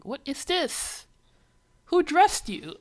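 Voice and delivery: high, loud incredulous cry; outraged exclamation. Real, not acted. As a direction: shout it in disbelief at the costumes. Outraged at character costume design.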